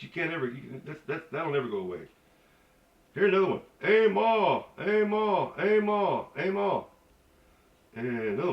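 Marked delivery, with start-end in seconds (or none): 3.8-6.8 high, loud repeated call; mimicked calling out. Local calls someone to come here, mimicked high and loud. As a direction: call someone over, pitched up and insistent.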